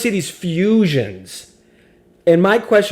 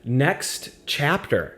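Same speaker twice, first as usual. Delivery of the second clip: soothing voice; 4 semitones lower, slower than usual. Shown as a demonstration. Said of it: "soothing, uh, sprightly vocal cords".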